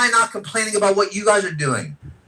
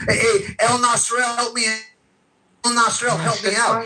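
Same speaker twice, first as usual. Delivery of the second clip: mock plea for help; 5 semitones higher than usual. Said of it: "when shit hits the fan".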